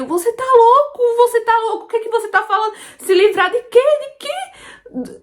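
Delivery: high, frantic, near-screaming disbelief; desperate high cry. Retold or imitated. Woman confronting her husband, desperate high-pitched cry. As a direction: shriek it out in panic, voice way up high. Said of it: "eu só gritava, eu só chorava".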